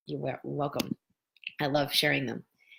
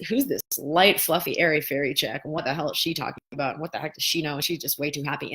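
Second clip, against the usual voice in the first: mocking skeptic. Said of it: "what you'll perceive is".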